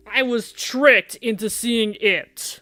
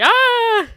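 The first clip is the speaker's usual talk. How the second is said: mock weak high squeak; pathetic little scream; 7 dB louder than usual. Mocking Damien's scream, feeble high yelp. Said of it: "that pathetic little scream".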